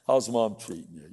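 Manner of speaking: low, mildly sour put-on voice; mock sour and dark. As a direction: play a dour adult addressing a kid. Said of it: "sour and dark".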